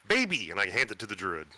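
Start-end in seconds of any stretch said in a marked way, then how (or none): 0.1-0.5 excited. Acted. Character hands over egg.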